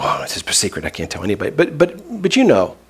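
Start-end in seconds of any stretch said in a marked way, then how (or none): 0.0-1.5 low, softened secretive voice; mock hush-hush. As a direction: confide it like a big secret, mockingly. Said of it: "hush, hush".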